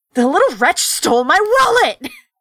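put-on shrill, loud, shrieking outburst. A rich person in the market suddenly shrieks after the fleeing thieves: shrieking.

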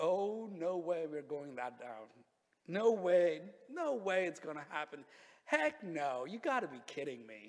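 incredulous, disbelieving, slow, laughing through the words. Acting out a reaction to ridiculous news: imitating a disbelieving laugh. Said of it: "A laugh of like".

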